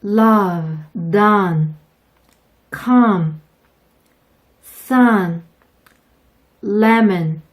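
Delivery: "love", "done", "come", "sun", "lemon" loud, with o as Korean 어; loud clear drill words; teacher models the o like a light 어; model schwa o. Shown as a demonstration. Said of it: "아래 단어들 한번 연습해 볼게요".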